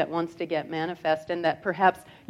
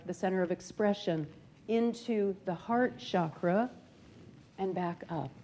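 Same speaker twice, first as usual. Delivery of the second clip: guided meditation. Acted. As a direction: guide them gently through the chakras.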